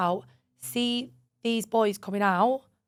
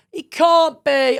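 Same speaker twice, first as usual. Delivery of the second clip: disbelieving protest; 5 semitones higher, 9 dB louder, much slower than usual. Retold or imitated. Insisting to Chloe, retold.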